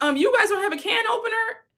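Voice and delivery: put-on startled, alarmed tone, very high-pitched. Retelling how the dad asked about the can opener: imitating an alarmed dad. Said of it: "even the dad was alarmed".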